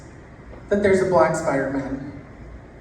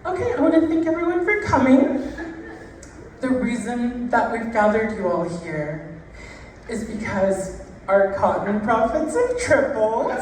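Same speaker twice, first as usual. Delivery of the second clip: high, hammed-up speech to the gathered workers, through laughs; a pompous boss addressing his staff, played for laughs; mock plantation master; 6 semitones higher than usual. Comic plantation master thanks the workers, hammed-up and high.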